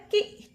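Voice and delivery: कि as one short "ki"; कि alone, ending on a brief i; syllable-sound demo. Shown as a demonstration. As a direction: sound out कि for a class. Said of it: "क्या आवाज है?".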